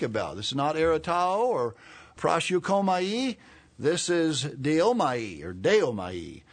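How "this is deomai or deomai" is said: deomai with the weight on DE, slow and careful; stress on first syllable. Shown as a demonstration. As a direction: lean on the DE of deomai, drawn out. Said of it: "Emphasis on the first syllable".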